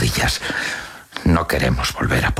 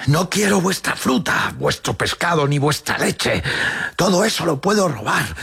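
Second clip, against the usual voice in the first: very high-pitched acted outcry; shouting. A narrator's reading. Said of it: "Ella se pone a gritar". (grito agudo y desesperado de niña)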